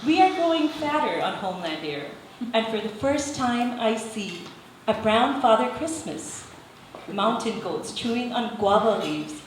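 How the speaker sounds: measured spoken-word delivery; deliberate poem reading with pauses between images; poetry recital. Acted. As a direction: read your poem to an audience, phrase by phrase. Recites own poem to audience.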